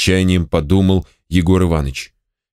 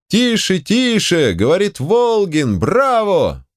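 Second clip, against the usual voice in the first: crowd calling out; 10 semitones higher, slower than usual. A narrator's reading. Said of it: "под возгласы".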